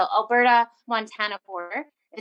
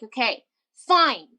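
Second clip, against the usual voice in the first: throwing a fit; 4 dB louder, slower than usual. Retold or imitated. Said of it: "I was, like, throwing a fit".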